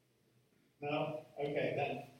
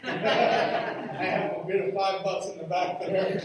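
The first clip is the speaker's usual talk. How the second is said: laughing; 5 semitones higher, 10 dB louder, slower than usual. Real, not acted. Laughing at a joke bid.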